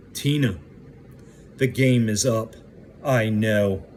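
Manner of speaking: retelling a calm, firm confrontation; calm but firm. Retold or imitated. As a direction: repeat it deliberately, calm and firm, with pauses. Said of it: "very calmly but firmly said".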